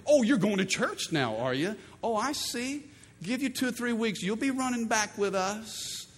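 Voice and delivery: sarcastic, doubting sing-song; mocking friend. Friend mocking a new churchgoer, sarcastic sing-song.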